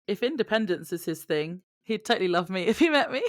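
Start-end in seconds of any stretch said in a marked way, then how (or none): 1.8-3.3 laughing. Real, not acted. Jokey boast to cohost.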